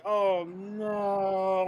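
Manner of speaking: high laughing wail; crying laughing. Real, not acted. Watching Jimmy's head go boing, laughing. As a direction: let the laugh break the words. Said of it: "I'm crying".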